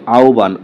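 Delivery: আহ্বান with no h and a single b: au-ban; correct pronunciation. Shown as a demonstration. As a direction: say আহ্বান as "auban", h turned into a u glide. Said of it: "প্রকৃত উচ্চারণ কোনটি". (আহ্বান-কে "আওবান" উচ্চারণ)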